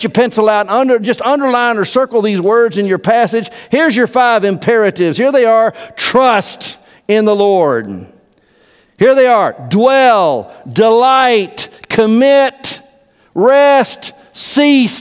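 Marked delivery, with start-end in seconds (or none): 6.0-15.0 high, loud, one word at a time; calling out. Real, not acted. Pastor lists five commands to his church, shouted high. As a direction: ring each imperative out louder.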